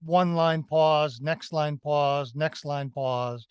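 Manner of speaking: slow, stopping hard after each line; mock sing-song recitation, pausing on each pause; choppy line-end pauses. Shown as a demonstration. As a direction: recite it stiffly with a full stop at every line end. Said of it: "rather than".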